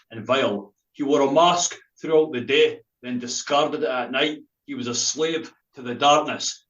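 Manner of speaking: slow, deliberate poetry reading; slow spoken-word performance of a poem; poem recital. Acted. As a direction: read the dark poem slowly to the listeners. Reads his poem aloud.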